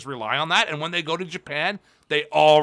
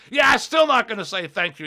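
higher mock promo voice; Jericho; 7 semitones higher, 4 dB louder than usual. Champion answering their congratulations, imitated brash scoff. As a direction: scoff like a wrestler mid-promo. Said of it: "just cut this promo on everybody".

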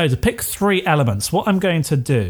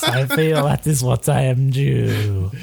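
put-on cute kid voice; slower than usual. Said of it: "I'll say".

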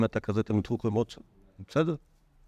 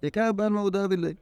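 calling out the sermon; 8 semitones higher than usual. Retold or imitated. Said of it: "וצועק את הדרשה".

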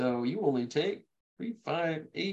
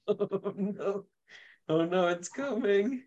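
mock dread; 6 semitones higher, slower than usual. Dreading the angry player's dice.

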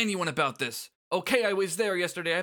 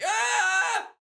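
loud, high, cornered blurt; flustered outburst; 9 semitones higher, 4 dB louder, slower than usual. Acted. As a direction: yelp it out like you've been caught. BJ caught, blurts confession.

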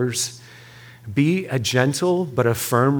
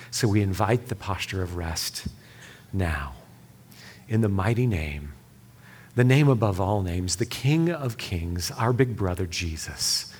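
prayer. Real, not acted. Pastor asking God to heal the room, prayerful.

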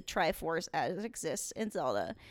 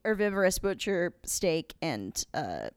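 stoned; slower than usual. Real, not acted. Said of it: "I'm very high".

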